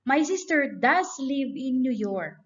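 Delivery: firm "does" in the middle; emphatic does. Shown as a demonstration. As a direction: stress on does. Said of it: "an exemption to the rule is this".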